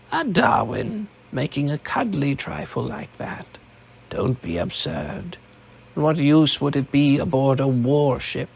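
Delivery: lightly voiced old woman, mocking; a hint of an old woman scoffing; scornful old matriarch. Nene voiced in the story.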